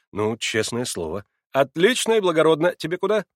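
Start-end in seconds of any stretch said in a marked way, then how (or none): 1.5-3.3 высоко и громче, бодро; одобри с размахом; довольный Маслобоев. A narrator's reading. (довольный приятель, бодро и громко)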